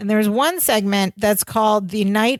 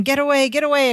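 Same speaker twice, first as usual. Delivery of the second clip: higher-pitched, mild retold scream; mock scream; 5 semitones higher, faster than usual. Host retelling Larry cornered by the vest, mild mock scream. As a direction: imitate a frightened scream without full volume. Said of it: "he's screaming".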